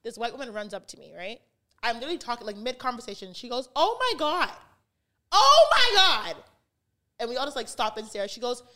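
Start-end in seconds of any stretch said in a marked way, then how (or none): 3.8-6.4 high, loud, stretched gushing squeal; gushing fan squeal. Retold or imitated. White woman gushing at her mid-conversation, high squealing.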